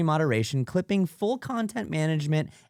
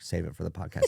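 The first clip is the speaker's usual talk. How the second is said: laughing quote; 11 semitones lower, 6 dB quieter, faster than usual. Retold or imitated. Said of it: "Des was like".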